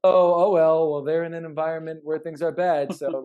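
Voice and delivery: breezy, shrugging mock voice that waves the problem away; mock dismissive excuse. Mocking the lenient boss who lets bad behavior fly, airy and dismissive.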